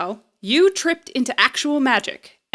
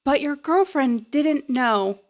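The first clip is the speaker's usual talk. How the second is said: slow teasing; slower than usual. Acted. Exposing the teens' secrets.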